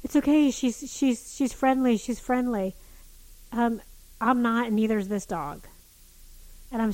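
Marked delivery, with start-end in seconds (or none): 0.0-2.8 higher, breezy mock reassurance; mock careless dog owner. A hint of the owner telling the dog walker it's fine, mock breezy. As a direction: lightly mimic a clueless owner waving it off. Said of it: "and the guy's like".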